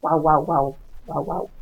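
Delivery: low "wow, wow" barks like a dog; Spanish dog barking. Shown as a demonstration. Teacher shows students how a Spanish dog barks, low barking. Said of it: "but in Spanish, they say".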